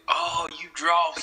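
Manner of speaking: imitated northerners. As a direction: mimic a northerner remarking on a drawl. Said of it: "they be like".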